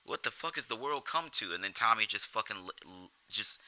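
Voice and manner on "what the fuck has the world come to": higher, mock-outraged ribbing; mock Jimmy ribbing. Jimmy turning to Tommy, mock-outraged ribbing. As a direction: feign outrage to wind Tommy up. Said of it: "he turns to Tommy".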